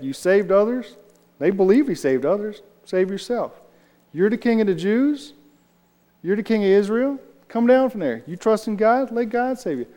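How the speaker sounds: high, taunting jeer at Jesus; mocking crowd. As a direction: sneer it up like a mocker at the cross.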